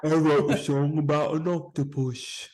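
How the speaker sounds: Impression of a famous drummer. Plays the drummer presenting his song.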